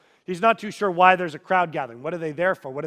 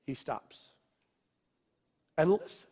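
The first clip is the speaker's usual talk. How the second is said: hushed awe; 2 semitones lower, 7 dB quieter than usual. Acted. Awe at God listening.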